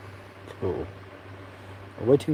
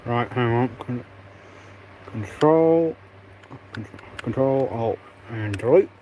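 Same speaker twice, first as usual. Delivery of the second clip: talking around a pen in the mouth; words muffled by a pen between teeth. Real, not acted. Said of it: "I just have the pen for my phone in my mouth".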